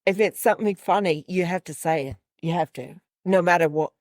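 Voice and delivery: put-on poorly done British accent; Ricky Gervais. Quoting a stand-up special to co-hosts, amateur British accent. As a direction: attempt a British accent, badly and casually. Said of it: "I'm gonna do this poorly, my British accent".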